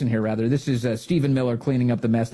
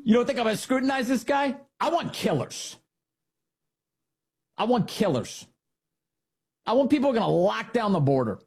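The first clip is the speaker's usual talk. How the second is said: Pete Hegseth; 5 semitones higher than usual. Acted. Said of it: "It's a variation on what Pete Hegseth might say".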